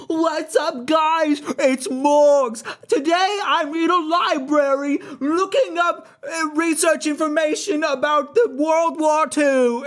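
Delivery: hammed-up YouTuber yell, very high and loud; mock a shouty vlogger, stretching the words out at full volume; Morgs yelling. YouTuber introducing a video to a child audience, mock yelling. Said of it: "He's always yelling. He never stops yelling".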